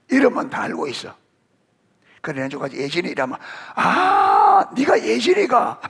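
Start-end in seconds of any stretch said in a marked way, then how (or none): 3.7-5.8 high, loud, laughing exclamation; hammed-up surprised recognition, laughing; mock surprised shout. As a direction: shout it like suddenly recognizing her.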